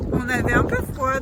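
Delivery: shouting over wind. Real, not acted. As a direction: call out over gusts. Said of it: "J'espère que vous m'entendez avec le vent".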